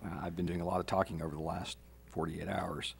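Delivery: losing voice, soft and hoarse; worn-out hoarse voice after days of talking. Real, not acted. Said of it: "I'm losing my voice".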